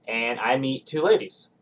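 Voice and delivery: ordinary delivery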